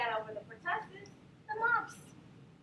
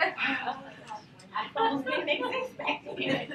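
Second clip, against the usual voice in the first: laughing; 4 dB louder than usual. Real, not acted. Still laughing after story.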